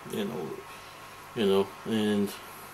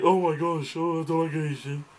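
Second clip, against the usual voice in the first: mock shocked onlooker; 3 semitones higher than usual. Mimics people's prejudiced reaction to others.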